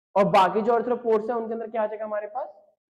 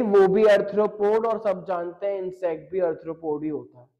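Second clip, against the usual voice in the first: mock cheeky student; slower than usual. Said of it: "कह रही".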